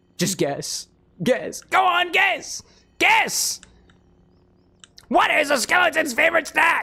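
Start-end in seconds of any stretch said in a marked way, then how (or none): 1.2-6.8 put-on skeleton voice, very high, rising screech. Retelling a skeleton puppet joke from a video: imitating a scream. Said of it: "the skeleton just, like, screaming".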